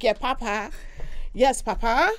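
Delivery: attempted Italian "Papa" in a Nigerian woman's voice; lightly put-on Italian address; non-Italian Papa. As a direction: say Papa with no real Italian accent. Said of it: "It's not gonna sound like Italian".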